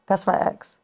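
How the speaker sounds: half-whispered retold aside; hushed retelling. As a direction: say it under your breath, reenacting the sighting. Retelling a furtive sighting to boyfriend.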